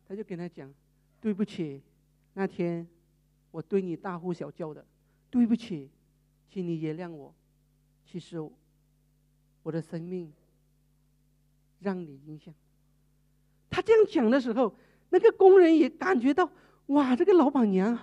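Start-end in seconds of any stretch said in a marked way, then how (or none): 1.2-12.5 low, soft weeping apology; tearful apology. Retold or imitated. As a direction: say sorry through tears. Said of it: "他哭了". (含泪轻声道歉)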